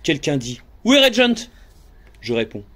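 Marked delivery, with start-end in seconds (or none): 0.9-1.5 crewman's call. Acted. Crewman calls out a question.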